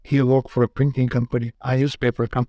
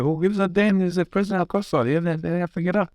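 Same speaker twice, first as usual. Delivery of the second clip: higher-pitched, mildly heated retort; retold indignant retort; 6 semitones higher, faster than usual. Brother's heated retort in retold quarrel.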